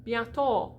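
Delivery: Bientôt ending in "taw"; open O. Shown as a demonstration. Teacher repeating the mistaken version, open O. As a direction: say "Bientôt" with an ah and rounded lips at the end. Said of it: "which is an ah with lips".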